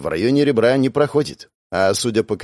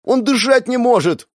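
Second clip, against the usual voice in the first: high, loud desperate shout; panicked cry; 12 semitones higher, 4 dB louder than usual. A narrator's reading. Sister crying that her brother cannot breathe.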